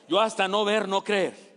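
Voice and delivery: hammed-up doubting Thomas; emphatic doubt. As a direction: dig in on YO, stubborn doubter. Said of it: "Tomás es el que duda".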